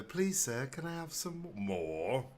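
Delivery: high, slow begging orphan voice; pleading orphan. Pretend. Friend repeats the orphan's plea, high and slow. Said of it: "Oliver Twist quote".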